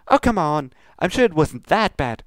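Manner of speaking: high, breezy pony reply; Pinkie Pie voice. Acted. Pinkie brushes off Luna's complaint, high and breezy. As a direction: wave it off lightly.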